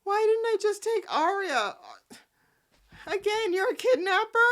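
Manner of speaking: high loud mock whine; mocking Mariah. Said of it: "Mariah was talking to Ian saying".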